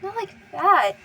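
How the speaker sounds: loud, high, desperate denial; raw denial. A narrator's reading. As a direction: refuse it with everything. Narrator's denial rising.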